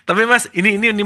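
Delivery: cracking up at a joke; laughing. Real, not acted. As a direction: repeat the word through real laughter. (tertawa geli sambil bicara)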